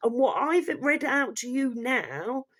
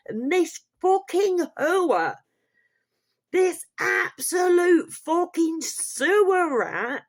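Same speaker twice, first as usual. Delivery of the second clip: higher, louder, slow furious rant; irate; 7 semitones higher, 4 dB louder than usual. Real, not acted. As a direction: drag out the insults in outrage. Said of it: "on that rather irate note".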